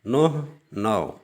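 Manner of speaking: نہ نو, each word drawn out slowly; slow Persian-Urdu pair. Shown as a demonstration. Teacher slowly contrasts Persian نہ with Urdu نو. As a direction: stretch نہ and نو apart. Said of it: "نون کے اوپر پیش پڑھیں گے".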